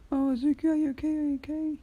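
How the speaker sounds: high, anxious mum voice; worried mother. Acted. Mother running up to her son, high and worried. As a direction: rush to him like a frightened mother.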